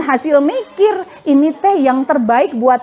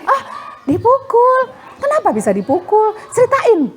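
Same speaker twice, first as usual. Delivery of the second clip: high, startled mother's questions; mock-alarmed mom, pitched up; 7 semitones higher than usual. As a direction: rush in with worried questions. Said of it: "Bukan begini mamanya kalau didengerin itu".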